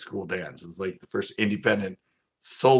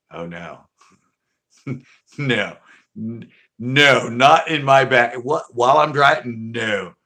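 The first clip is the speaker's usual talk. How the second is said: mock outraged protest; 7 dB louder, slower than usual. Driver protesting to friend in back seat, building outrage.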